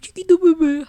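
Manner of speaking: doting mom. Retold or imitated. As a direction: coo like a mother to her little one. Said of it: "My mom's still like".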